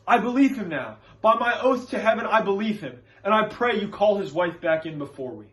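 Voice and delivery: earnest plea with a touch of urgency; Reverend Hale. Acted. Reverend begs Danforth to stop the condemnations, earnestly pleading. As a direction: appeal to authority, building in conviction. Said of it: "he is also addressing Danforth as he defends the Proctor family".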